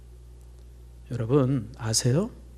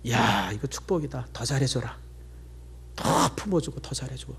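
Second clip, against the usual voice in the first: gentle declaration; 6 semitones lower, 8 dB quieter than usual. Retold or imitated. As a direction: calmly bless the situation. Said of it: "그래서 제가 선언했어요". (천천히 부드럽게 축복을 선언하듯)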